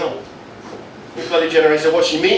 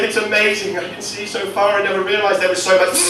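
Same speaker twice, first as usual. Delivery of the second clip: awed nettle; 8 semitones higher than usual. Acted. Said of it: "He's like".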